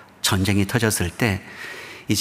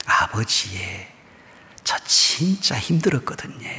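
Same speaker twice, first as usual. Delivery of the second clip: Gyeongsang dialect; 6 semitones higher than usual. Retold or imitated. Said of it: "경상도 사투리로".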